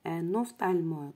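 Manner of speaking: ophtalmologue with PH sounding as F; teacher showing ophtalmologue's PH as F. Shown as a demonstration. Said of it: "P H se prononce F".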